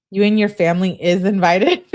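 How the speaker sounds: loud, emphatic reading of the text; reading it as written. Retold or imitated. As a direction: read it loud, just as she wrote it. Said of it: "I wanted to read it just like she said".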